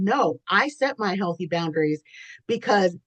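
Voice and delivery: talking around a cat hair in the mouth; words muffled by a hair on the tongue; something in mouth. Real, not acted. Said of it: "I have a cat hair in my mouth".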